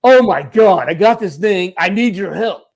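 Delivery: loud, drawn-out dude talk; emphatic impression of a friend; Max. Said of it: "And this is how Max talks".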